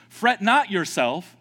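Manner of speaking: slow and loud, leaning on "not"; intoned psalm line; slow quoted verse. Acted. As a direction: recite it deliberately. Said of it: "the psalmist that says".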